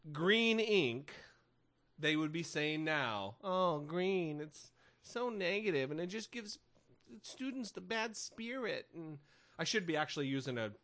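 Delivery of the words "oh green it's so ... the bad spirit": higher, softer mock lament; hand-wringing mock concern; mock fretting. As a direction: play a precious, complaining educator. Mimicking hypothetical fretting educators.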